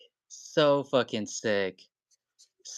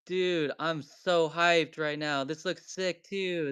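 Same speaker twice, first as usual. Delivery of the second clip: high and slow, still buzzing; hyped; 4 semitones higher than usual. Real, not acted. Streamer telling the buyer he's hyped. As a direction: savour the hype. After the big pull.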